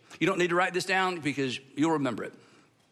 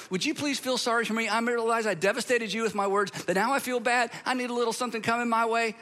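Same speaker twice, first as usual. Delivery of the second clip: mock self-pity; 3 semitones higher, faster than usual. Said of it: "that's like a request for empathy".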